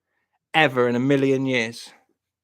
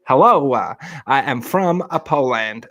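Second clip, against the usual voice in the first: mock Polish accent for a quick demo. Shown as a demonstration. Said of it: "That was my Polish".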